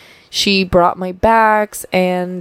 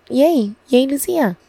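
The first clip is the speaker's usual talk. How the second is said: self cheer; 6 semitones higher than usual. Real, not acted. Cheers herself on.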